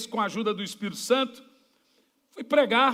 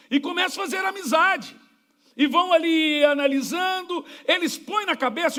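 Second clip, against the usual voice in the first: raised, higher preaching shout; higher-pitched preacher's cry; pulpit shout; 5 semitones higher than usual. Real, not acted. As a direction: drive the warning home from the pulpit. Preacher warns congregation.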